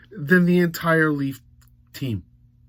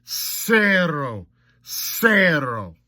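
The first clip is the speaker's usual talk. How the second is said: mock stat announcer; much slower than usual. Calls out mock stat report.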